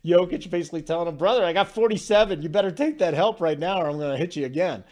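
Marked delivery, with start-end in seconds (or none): 1.2-4.9 retold taunt. Jokic taunt retold again.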